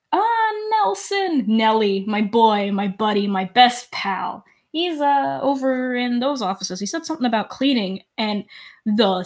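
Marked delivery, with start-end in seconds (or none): 0.1-8.0 Threepwood voice. Acted. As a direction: gush about his buddy.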